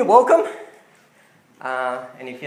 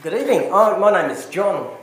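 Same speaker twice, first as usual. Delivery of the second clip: echoing like in a cave; boomy echoing room sound; 3 semitones higher, 8 dB louder than usual. Real, not acted. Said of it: "I sound like I'm in a cave".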